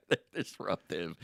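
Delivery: repeating it through a laugh. Real, not acted. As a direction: laugh as you say it. Repeats line while laughing.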